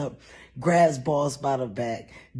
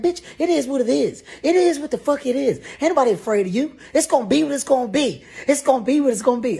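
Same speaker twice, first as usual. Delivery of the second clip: much higher and louder, fast chant; drunk yelling; 12 semitones higher, 8 dB louder, much faster than usual. Retold or imitated. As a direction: rage quoting movies. Blacked out, threatening.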